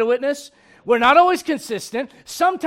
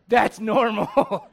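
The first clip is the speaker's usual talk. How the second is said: amused drawl; 3 semitones lower, much slower than usual. Retold or imitated. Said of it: "I'm like".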